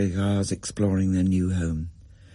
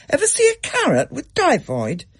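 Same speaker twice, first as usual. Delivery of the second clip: sniffy Gran. A narrator's reading. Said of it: "Gran sniffed".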